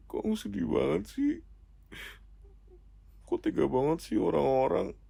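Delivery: high, plaintive mock-sad whine; put-on heartbroken complaint. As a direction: lament it like a hurt child. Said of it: "kok gue jadi sedih gini".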